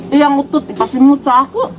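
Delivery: giggling mock protest; laughing complaint. Real, not acted. Mother laughing at her child about the fart smell.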